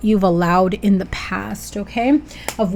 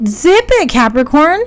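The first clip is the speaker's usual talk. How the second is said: much higher, louder stern order to hush; sharp command; 6 semitones higher, 6 dB louder than usual. Acted. Reader scolding Capricorn not to give in, sharp loud command. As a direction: shut them up, firm and loud. Scolding viewer to stay silent.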